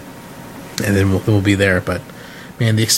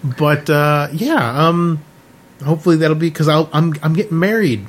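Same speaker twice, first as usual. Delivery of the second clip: shouting over machinery; 5 semitones higher than usual. Real, not acted. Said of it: "the car wash is too loud".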